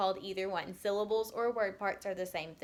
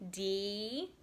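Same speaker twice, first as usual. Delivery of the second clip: "Diana" with gaps between dee, ah, na; "Diana" in three separate parts; split into syllables; 5 dB quieter than usual. Shown as a demonstration. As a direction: hold each syllable of "Diana". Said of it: "She has three syllables too".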